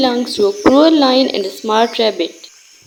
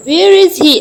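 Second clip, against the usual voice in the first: higher and louder, a lion's roar; roared question; 6 semitones higher, 5 dB louder than usual. A narrator's reading. Lion demands where the rival is, roaring. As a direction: bellow it like an angry lion king. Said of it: "roared aloud".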